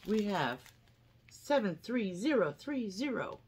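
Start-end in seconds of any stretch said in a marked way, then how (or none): 1.3-3.4 flat robot voice reading numbers. Real, not acted. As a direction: read digits like a robot. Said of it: "I sounded like a robot".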